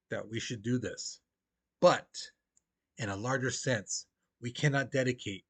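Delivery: measured, earnest recitation with weighty pauses; formal speech reading. Acted. Teacher reading the Gettysburg Address aloud to the class, solemn and measured. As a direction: read it like a solemn address to a nation.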